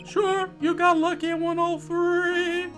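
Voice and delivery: high, loud begrudging scorn; scornful concession. Acted. Rival dismisses the lawyer's wins.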